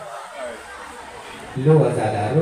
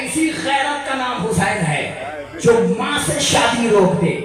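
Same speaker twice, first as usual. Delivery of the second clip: high, loud chanted sermon refrain; preaching at full force; 8 semitones higher, 3 dB louder than usual. Acted. Preacher chants the refrain to mourners, loud and high. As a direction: declaim each line to the crowd.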